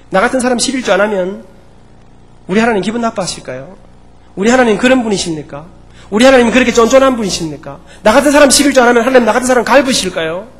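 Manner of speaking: retold tearful challenge. Deaconess challenging her pastor about tithing, retold tearful protest. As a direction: build into an indignant appeal, imitating her. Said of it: "막 울면서 목사님 앞에 대들었습니다".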